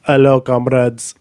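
slow put-on Russian accent. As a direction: try out a mock Russian accent, slowly. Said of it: "better for your Russian accent".

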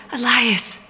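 sharp, exasperated cutting in; snapped. A narrator's reading. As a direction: snap the name as a warning. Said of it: "Rhea snapped".

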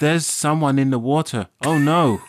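overacted rescue drama; hammy acting. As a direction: ham it up like a bad actor. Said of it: "Oscar worthy".

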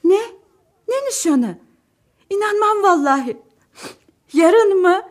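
can't believe the news; amazed disbelief. Acted. Wife hears surprising engagement news. (yüksek sesle şaşkınlık, ağlamaklı)

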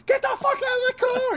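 high barked command; armed cop yelling at driver, high and loud; cop shout. Retold or imitated. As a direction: scream the order at the driver. Cops yelling with guns drawn.

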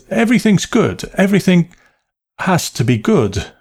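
high, strained, insistent cheer; wanting to be overheard. A narrator's reading. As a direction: proclaim approval for an unseen listener, stammering. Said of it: "wanting to be overheard tone of voice".

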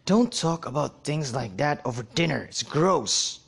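disgusted father scolding at dinner. Acted. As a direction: scold him like it's gross. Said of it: "replied in disgust".

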